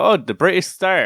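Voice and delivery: high, mocking English voice; mock English press. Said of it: "They just go".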